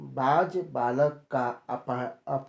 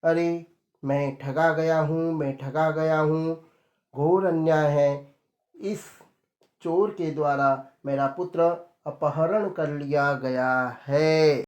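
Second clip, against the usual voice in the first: louder protest of being cheated; loud cry. Acted. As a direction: cry out to the court against the thief. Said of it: "सेठ ने जोर से बोला".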